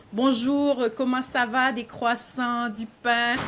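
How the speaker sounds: a light hint of a France French accent; mock a Parisian, lightly playful. Shown as a demonstration. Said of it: "This is more France".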